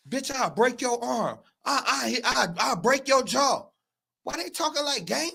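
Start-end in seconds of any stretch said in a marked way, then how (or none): 0.1-3.7 imitating a cop's rough threat; mock cop threat. Mocking how the police spoke to the suspects, rough threat. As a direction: play the cop barking a threat. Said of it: "why come they was talking like".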